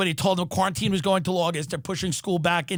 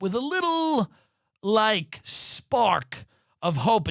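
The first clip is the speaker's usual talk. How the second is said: mock hopeful; slower than usual. Shown as a demonstration. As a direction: savour the tiny hope mockingly. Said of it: "with a little hope".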